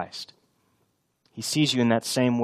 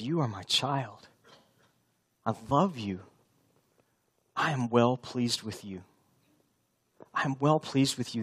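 tender voice of God; 7 dB quieter than usual. Acted. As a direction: lean in and speak the Father's words gently. Preacher voices God speaking to believers.

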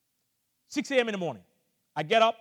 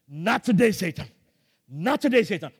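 louder ringing "Not today"; defiant declaration; 6 dB louder than usual. Retold or imitated. Preacher defying Satan during the shock, ringing rebuke. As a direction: rebuke Satan with rising force.

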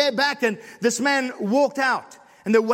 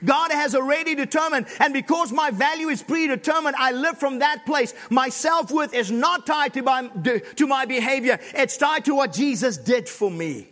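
fervent sermon delivery, building in force; preaching; 4 semitones higher than usual. Acted. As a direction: preach it to the room, rising toward the climax. Impassioned preaching to congregation.

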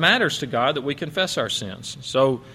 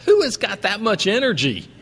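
blunt, higher incredulous quip; brazen remark; 7 semitones higher than usual. Retold or imitated. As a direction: toss it off bluntly, half amazed. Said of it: "she's pretty brazen and pretty straightforward".

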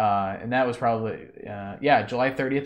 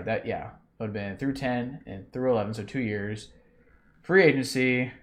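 slightly breathless, catching air; out of breath. Real, not acted. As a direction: talk while catching your breath. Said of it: "sorry, I'm out of breath".

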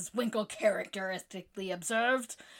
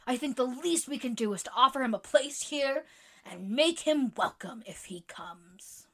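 sincere pleading, softening at the end; in earnest; 3 semitones higher than usual. Acted. Jo earnestly vouching for Laurie to the club. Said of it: "very much in earnest".

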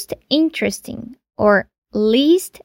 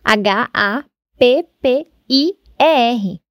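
letters spelled slowly, one at a time; slow spelling. Shown as a demonstration. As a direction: spell each letter clearly. (soletrando devagar)

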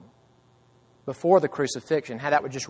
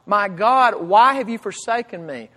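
loud, anguished cry, a touch higher; screaming out; 4 semitones higher, 5 dB louder than usual. Acted. Preacher retells Jesus crying from the cross, loud. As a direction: call out to God in anguish. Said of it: "he is screaming out".

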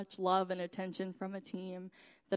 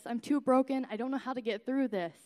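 crying out; 4 semitones higher, 3 dB louder than usual. Retold or imitated. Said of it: "as I sat on my couch crying".

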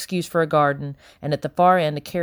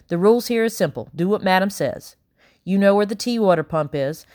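slightly raised bustling maid voice; brisk housekeeper Becky; 3 semitones higher than usual. Acted. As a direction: rattle off the rules like a harried housekeeper. Becky lays down house rules.

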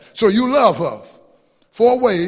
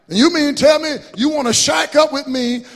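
higher, louder, voicing a fed-up wife; indignant wife voice; 6 semitones higher, 4 dB louder than usual. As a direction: plead like a wronged woman demanding marriage. Preacher voices wife confronting husband.

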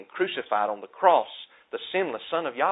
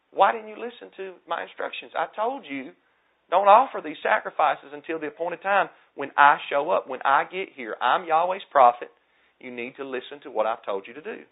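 mild scolding, higher-pitched at first; acted rebuke; 4 semitones higher than usual. Prophet Samuel to Saul over the early sacrifices, mildly rebuking. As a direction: take him to task as the prophet, without shouting. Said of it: "So he rebuked Saul".

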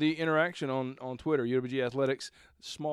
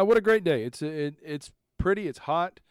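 raised, louder stadium announcer delivery; 3 semitones higher, 4 dB louder than usual. Shown as a demonstration. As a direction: call it out like the stadium speakers. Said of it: "practicing the P A voice".

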